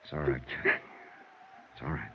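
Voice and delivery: soft, low, comforting murmur; soothing. Acted. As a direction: hush her gently, very quietly. Johnny comforts crying Kathy.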